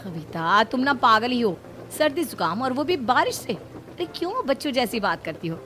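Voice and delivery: eager to dance in the rain; playful mother-in-law. Acted. Narrator voices mother-in-law.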